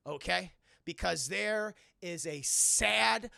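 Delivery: Alfred chewing Bruce out; scolding Alfred. Retold or imitated. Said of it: "and Alfred's like".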